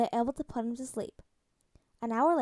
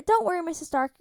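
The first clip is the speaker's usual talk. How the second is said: eager reassurance; 6 semitones higher, 5 dB louder than usual. Acted. Drugged boy reassures Tony.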